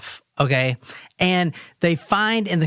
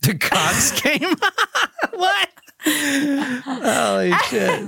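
laughing; 11 semitones higher, much slower than usual. Real, not acted. Shocked laughing reaction.

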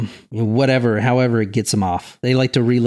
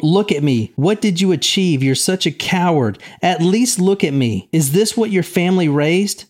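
higher, reading the mother's outburst with feeling; mild angry quote; 5 semitones higher than usual. Retold or imitated. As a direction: voice the mother's anger, understated. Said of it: "says stuff like, quote".

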